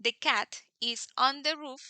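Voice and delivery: said slowly and deliberately; slow, careful example read; slow demo sentence. Shown as a demonstration. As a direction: draw out the cat is on the roof. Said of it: "si yo digo".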